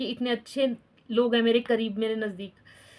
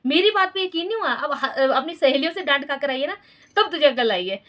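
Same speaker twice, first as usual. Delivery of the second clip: mock husband's told-you-so; 3 semitones higher than usual. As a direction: play the husband gloating that he said so first. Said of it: "कहते".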